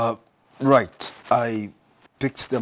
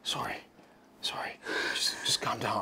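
soothing apology; 7 dB quieter than usual. Acted. Husband backs down to soothe her.

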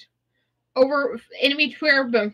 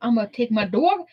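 sassy attitude. Acted. Brushing off her nagging about corpses, sassy. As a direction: toss it off like nothing matters. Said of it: "we have to get that attitude with that accent".

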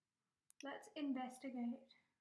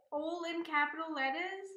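surprised; 3 semitones higher, 8 dB louder than usual. Real, not acted. Reacting to the tweet live.

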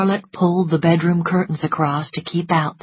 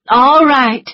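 cutting her off; 8 semitones higher, 8 dB louder than usual. A narrator's reading. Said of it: "said Scarlet quickly".

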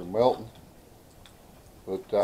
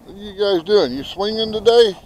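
higher, louder pet-talk greeting; greeting the chickens; 7 semitones higher, 6 dB louder than usual. Real, not acted. Chicken keeper greeting his birds on the swing, chirpy pet-talk. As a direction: call out brightly to your animals.

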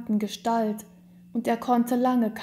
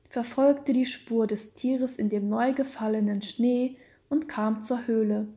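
ordinary delivery

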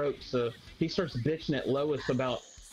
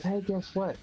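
mock gossip voice; 5 semitones higher than usual. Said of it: "he calls some other gay guy and he goes".

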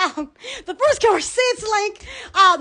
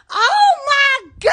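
shocked exclaim; 7 semitones higher, 4 dB louder, slower than usual. Real, not acted. Reacting to arranged-marriage message.

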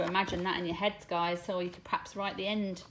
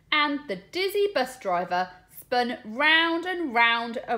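lively, sing-song storybook reading with voiced lines; reading to children; 6 semitones higher, 3 dB louder than usual. Teacher reading a bus story aloud to her class, animated storytelling. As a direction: read it big for the little ones. Reads picture book to class.

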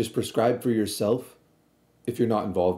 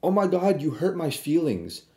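high, hammed-up offended whine; mock hurt feelings; 6 semitones higher than usual. Mocking people offended by mispronunciation, hammed-up hurt. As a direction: pretend to be wounded over a name. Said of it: "I'm never like".

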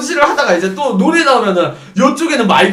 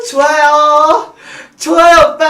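high, loud drawn-out squeal; hostess cheering; 7 semitones higher, 6 dB louder, slower than usual. Acted. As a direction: stretch it out in a singsong, high hostess voice. Hostess cheering a singing customer.

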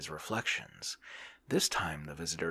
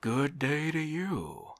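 official's reply; 10 semitones higher, 5 dB louder, slower than usual. A narrator's reading. Visitor answers Oblomov's greeting.

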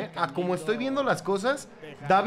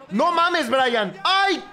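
loud, raised gasping cries; mounting excitement; 7 semitones higher, 5 dB louder, much slower than usual. Real, not acted. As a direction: call out as the chance builds. Watching Brian's run at goal. (gritos de emoción creciente)

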